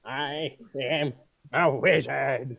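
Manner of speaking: slow, drawn-out parody of a meme line; surgeon meme imitation. Player parodying the surgeon meme as a wizard, slow and deliberate. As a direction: stretch out each word like the meme. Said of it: "it's like that "I'm a surgeon".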